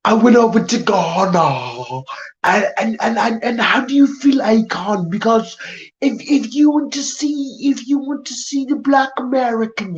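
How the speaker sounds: lightly done British accent, mocking the guest; parroting her British accent to ridicule it. Streamer mocking a British guest, in a mock British accent. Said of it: "where did I hear this stupid ass accent".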